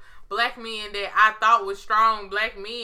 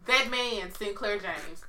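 loud mock plea; 3 semitones higher, 15 dB louder, much slower than usual. Begging Sinclair to hug a rapper, slow loud wail. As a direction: wail the plea at full force.

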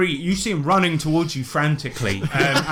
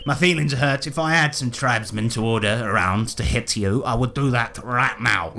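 lightly voiced wounded ruler, slightly low; sulky, understated threat; hurt little king figure; 3 semitones lower than usual. King answering the insult, mildly hurt. Game master plays King of Gibbermen.

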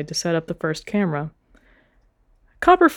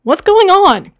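much higher, louder yell; 12 semitones higher, 9 dB louder, slower than usual. A narrator's reading. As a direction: call out over the commotion. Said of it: "Copper yelled".

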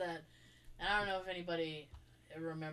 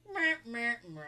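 mocking dog laugh; 3 dB louder than usual. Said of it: "and he'd be like".

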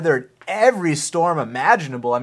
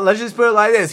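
emphatic; 7 semitones higher, 8 dB louder than usual. Real, not acted. Emphatic declaration about fighter.

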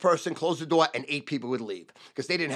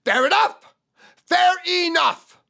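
loud, high, falling fair enough; fair enough as statement; 13 semitones higher, 8 dB louder than usual. Shown as a demonstration. Salesman closing the deal as a statement. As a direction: state it, don't ask. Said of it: "ask it as a statement".

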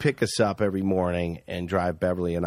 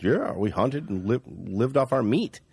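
put-on backwoods Canadian accent. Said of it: "kind of doing his accent".

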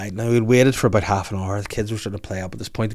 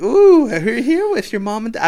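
very high put-on character voice; Mulan; 10 semitones higher, 9 dB louder than usual. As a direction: coo it as if to a little child. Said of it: "She's like".

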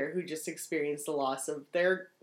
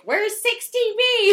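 frustrated Drew; 9 dB louder, slower than usual. Retold or imitated.

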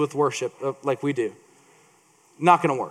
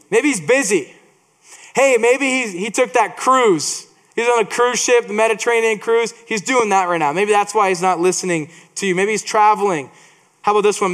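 mocking taunt; 3 semitones higher than usual. Elijah taunting Baal's prophets.

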